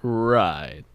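flat mechanical robot voice. Acted. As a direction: say it like a deadpan robot. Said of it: "he said right in a robot voice".

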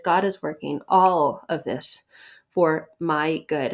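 "all" leaned on, "for my good" slowed; stress on all. Shown as a demonstration. Preacher stresses "all" reading Romans 8:28. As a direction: lean on "all" and slow the last words. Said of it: "notice the emphasis on the key words there".

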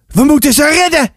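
put-on eager boy. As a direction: propose a rescue like an excited boy. Boy proposes rescuing the birds.

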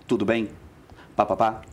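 short, matter-of-fact greeting like a guy; man's way of talking. Shown as a demonstration. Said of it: "ele fala mais assim".

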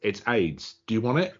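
dry, understated comeback; deadpan. Retold or imitated. Student answering the lecturer who stopped the class, deadpan. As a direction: deliver it deadpan, as a straight offer. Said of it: "he deadpan goes".

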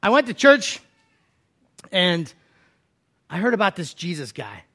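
lightly voiced friend. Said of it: "who said".

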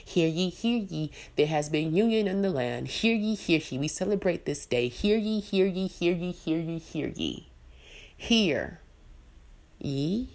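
proclaiming like a town crier. Pretend. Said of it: "I stand on my soapbox and I say".

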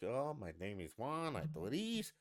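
mimicked Spanish accent; accent the whole time. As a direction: imitate a Spanish speaker throughout. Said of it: "unless you have an accent the whole time".

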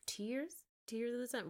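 lightly incredulous teasing echo; mocking. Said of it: "making fun of him".

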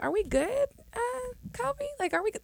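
high, anxious checking in; nervous high questioning. Retold or imitated. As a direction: ask it in a worried high voice.

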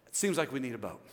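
dry punchline after the protest; deadpan understatement. Pretend. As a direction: drop down and state the obvious. Repeats objection as deadpan punchline.

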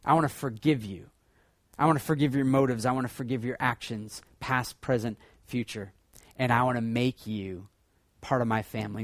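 a hint of quiet, tender God; God's tender promise. God lightly voiced promising to forgive the failed hearts, tender. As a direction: speak it softly as a loving promise. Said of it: "and he says".

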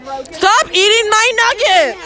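slow, drawn-out protest yell; upset yell. Real, not acted. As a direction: stretch it out, pleading. Friend eating her nugget.

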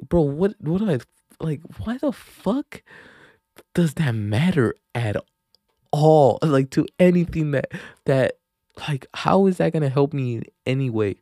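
loud indignant disbelief at a dumb question; exasperated retort. Retold or imitated. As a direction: push back hard, fed up and disbelieving. Heated retort to stupid question.

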